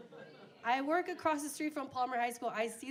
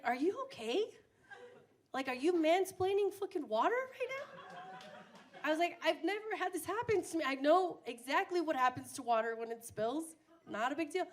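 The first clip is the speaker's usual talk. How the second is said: higher, incredulous sarcasm; sarcastic disbelief; 5 semitones higher than usual. Retold or imitated. Calling out her boyfriend for mansplaining water, sarcastic. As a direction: let the disbelief drip.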